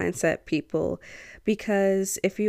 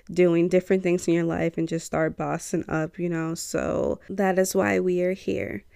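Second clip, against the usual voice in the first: stuffy nose. Real, not acted. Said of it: "sorry if I sound a little stuffy".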